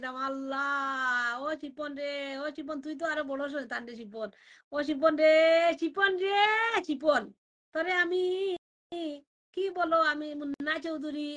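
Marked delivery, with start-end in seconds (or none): 4.7-7.2 calling out. Real, not acted. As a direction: call Shipon from a distance. Calling out to Shipon. (শিপনকে দূর থেকে ডাকা, চড়া গলায়)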